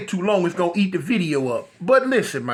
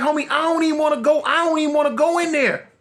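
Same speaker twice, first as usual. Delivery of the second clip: higher and fast, pleading; I'm not going, man; retold refusal; 7 semitones higher than usual. Refusing to enter the projects, high fast protest.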